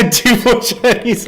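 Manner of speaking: high, loud, slow mock Chinese-ish accent with a laugh. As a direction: ham up a silly Chinese-sounding accent while laughing. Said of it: "It may have sounded Chinese".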